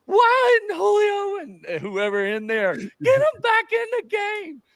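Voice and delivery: high yelling coach rant; angry coach tearing into an assistant; imitating angry Saban. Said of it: "He's going off on him".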